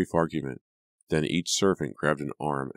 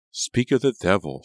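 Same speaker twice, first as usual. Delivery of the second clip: eye-rolling; 5 semitones higher, 6 dB louder than usual. A narrator's reading. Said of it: "she said, rolling her eyes".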